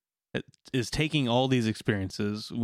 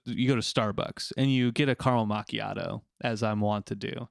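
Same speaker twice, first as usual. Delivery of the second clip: vocal fry. Shown as a demonstration. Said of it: "I'm trying to use a lot of vocal fry".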